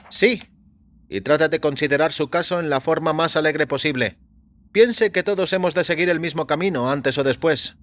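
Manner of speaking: lightly voiced doctor musing on the murders. A narrator's reading. A doctor tells his patient about the public's reaction, in a lifted voice.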